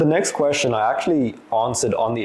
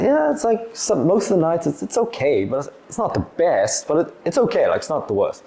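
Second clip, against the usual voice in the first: noncommittal; 5 semitones higher than usual. Retold or imitated. Imitating team member's lukewarm answer.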